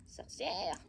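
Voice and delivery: said through a laugh; Sorcière breathed on a chuckle. Real, not acted. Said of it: "comme elle dit, Chabouli".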